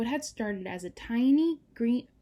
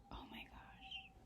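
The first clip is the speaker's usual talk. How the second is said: soft sigh, whispered oh my gosh; touched by the mountain's sadness; moved sigh; 21 dB quieter, slower than usual. Real, not acted. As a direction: breathe it out, touched. Moved by the story.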